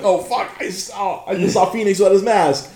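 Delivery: high, stunned whisper-shout; shocked. Retold or imitated. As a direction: recoil as if you saw something forbidden. Shocked inner quote.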